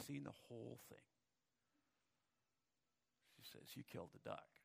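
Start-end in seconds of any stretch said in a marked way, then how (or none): 3.8-4.6 low, soft accusation; little sister catching her brother, low and accusing. Acted. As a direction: say it like a tattletale sister. Sally catches Johnny.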